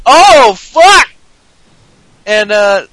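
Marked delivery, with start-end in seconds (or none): 0.1-1.1 loud high mock groan of dismay; a loud pitched-up fake "Oh, fuck!"; crowd groan. The booed guy reacting to the crowd, in a loud mock groan. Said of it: "And it's like".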